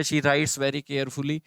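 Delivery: the corrected sentence read slowly, "carefully" said in full; slow corrected take. Shown as a demonstration. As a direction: read the fix out slowly for students. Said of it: "verb के बाद adverb".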